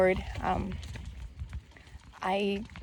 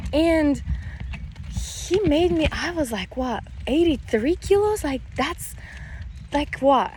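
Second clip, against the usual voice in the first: incredulous; 5 semitones higher than usual. Real, not acted. Disbelief at her pregnancy weight.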